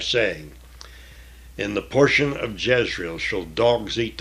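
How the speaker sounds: measured, solemn Bible reading; scripture reading. Acted. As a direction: read the King James text with weight.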